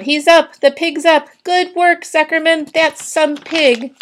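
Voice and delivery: high, excited cheering; loud high shouts, stretching the last one; yelled by a crowd. A narrator's reading. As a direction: call out praise like a fan in the stands. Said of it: "yelled the crowd".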